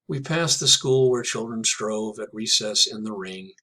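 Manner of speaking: measured recitation of a poem; poem reading. Acted. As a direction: read it like verse. Reads the next poem aloud.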